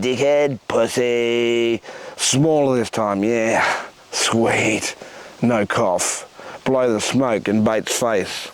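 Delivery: rhythmic performance-poet delivery, voicing his stoned mates; spoken-word poem. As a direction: bring the stoner scene to life line by line. Performs a poem about smoking dope.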